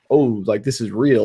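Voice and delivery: usual speaking voice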